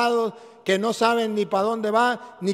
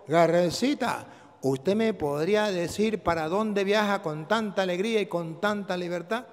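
soft asking voice; 3 semitones lower, 8 dB quieter than usual. A narrator's reading. Cloud asks first heron.

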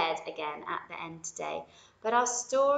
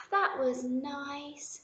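yawning; 7 semitones higher, much slower than usual. Acted. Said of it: "with a huge yawn".

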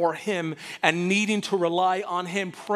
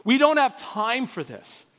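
lightly acted urgent father; impatient Jairus; 2 semitones higher than usual. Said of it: "your Jairus are going".

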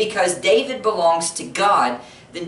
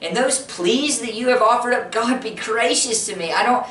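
higher, anguished plea to God; pleading prayer; 5 semitones higher than usual. Acted. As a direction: pray like someone worn out by suffering. Voicing a sufferer's prayer.

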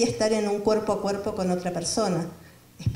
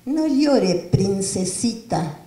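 voicing the mother; much slower than usual. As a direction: coo it like a mother to her little princess. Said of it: "le dice". (madre consolando a la niña con ternura)

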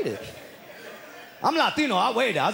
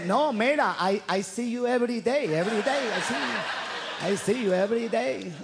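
put-on high, knowing old lady voice; grandma scolding; 9 semitones higher than usual. Grandma tells the dealer she sees him daily, high and knowing. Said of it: "My grandma let him know".

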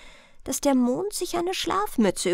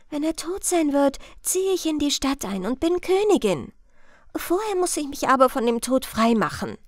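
higher, lightly acted princess; scheming princess; 5 semitones higher than usual. Princess planning to be queen and escape Death, scheming. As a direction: plan it out as the princess.

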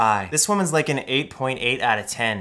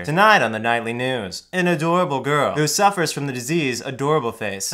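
newscaster voice. Pretend. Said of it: "Why do I sound like a newscaster?".

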